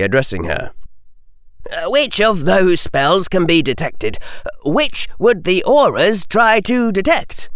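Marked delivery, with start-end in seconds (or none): 1.7-7.5 put-on young boy outraged at the verdict. A narrator's reading. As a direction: protest it in disbelief. Harry asks.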